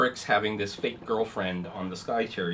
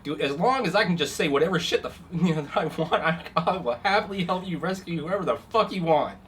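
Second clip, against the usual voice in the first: laughing agreement; 6 semitones higher, 5 dB louder than usual. Acted. NPC laughing while agreeing.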